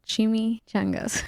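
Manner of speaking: Chimichangas with a Spanish accent. Shown as a demonstration. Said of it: "this is where my Spanish accent comes out".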